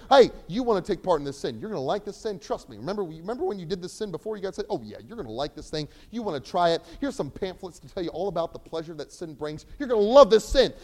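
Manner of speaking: coaxing sin salesman, loud and pushy; tempting salesman. Acted. Preacher voicing the flesh as a pushy salesman. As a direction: sell the sin like a slick huckster.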